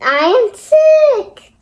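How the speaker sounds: high, loud and slow announcement; relieved excitement. Acted. Gerald relieved it is only a cold, proclaiming it loudly. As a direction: shout the news with joy, stretching it out. Gerald happy to learn he's sick.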